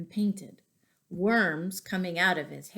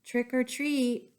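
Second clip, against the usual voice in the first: normal voice, a bit louder; boy trying again a little louder; 4 semitones higher than usual. Acted. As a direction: speak up a little. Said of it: "He said a little louder".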